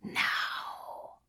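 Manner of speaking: low breathy command; a creature's quiet order; demon voice. A narrator's reading.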